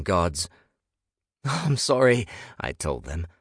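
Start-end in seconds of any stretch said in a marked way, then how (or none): 1.4-2.3 high, loud apology; raised, pleading voice; frantic apology. A narrator's reading. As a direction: blurt it out to the gods. Apologising to the bedroom gods.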